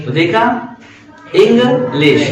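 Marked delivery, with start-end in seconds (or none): 1.3-2.2 "इंग्लिश" split, इंग stable, लिश lifted a little; two-part "इंग्लिश" with a pause between; steady, then ascending. Shown as a demonstration. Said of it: "लिश थोड़ा सा खींचते हुए".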